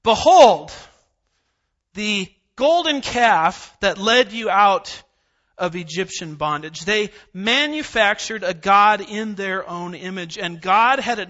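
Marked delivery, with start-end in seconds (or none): 0.0-6.8 voicing Aaron. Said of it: "It was Aaron the high priest".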